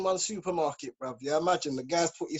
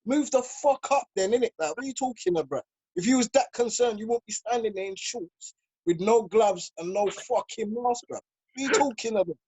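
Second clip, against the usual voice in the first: retold angry outburst; 4 semitones higher than usual. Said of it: "I said".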